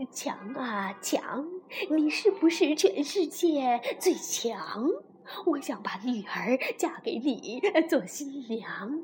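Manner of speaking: lightly voiced old mouse chief; mouse chief pleading. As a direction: ask the wall quietly and humbly. Sore mouse chief asks the wall.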